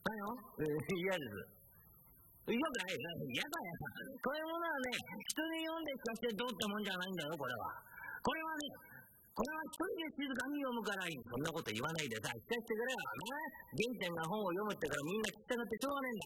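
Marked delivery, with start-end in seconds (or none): 2.5-11.2 Gen-chan. Acted. Gen-chan refuses to read aloud.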